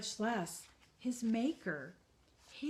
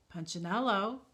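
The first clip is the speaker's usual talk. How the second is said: deep strong call; 2 semitones higher, 6 dB louder than usual. Acted. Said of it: "The voice was deep and strong".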